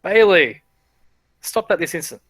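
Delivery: sharp call to the pet Bailey, loud at first; a fussy shopkeeper snapping at his pet to behave; scolding shopkeeper. Acted. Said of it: "he says".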